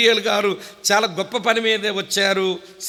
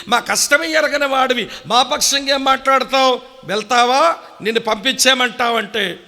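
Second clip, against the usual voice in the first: indignant rebuke; 2 semitones higher than usual. Acted. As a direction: confront the angel, voice climbing. Third rebuke of Gabriel.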